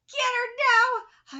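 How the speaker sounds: loud, slow call to attack; rallying shout at the fighter; cheering shout. Acted. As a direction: yell it from the corner. Cheering line from the manga.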